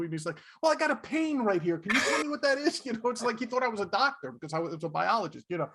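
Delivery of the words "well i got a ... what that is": higher, anxious mock plea; worried hypochondriac. Hypochondriac Fez asking the biologist about pain, worried mock voice. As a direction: beg the doctor for an answer.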